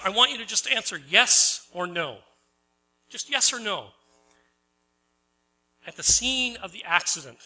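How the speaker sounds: a pushy lawyer demanding yes or no, lightly voiced; mock stern lawyer. Preacher voicing a lawyer cross-examining the farmer. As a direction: press the witness for a yes or no.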